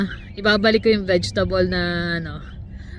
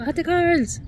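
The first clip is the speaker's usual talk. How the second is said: calling out; 10 semitones higher than usual. Retold or imitated. Coworker suddenly calling her name.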